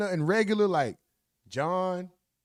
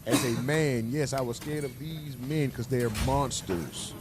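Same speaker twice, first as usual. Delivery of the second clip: a lower, hammed-up sorry voice begging for sympathy; mock pitiful testimony; 5 semitones lower, 6 dB quieter than usual. Pretend defendant pleading to the jury, mock pitiful. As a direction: lightly play the scared, sorry defendant. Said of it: "I'm crying that same story".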